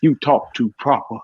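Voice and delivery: lightly put-on Southern speech; Southern accent. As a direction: imitate an Atlanta local's Southern accent. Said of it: "I started talking like them".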